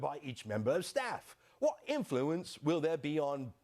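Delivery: fading mock British accent, slowing; a put-on Brit voice running out of steam. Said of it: "I can't even keep that up".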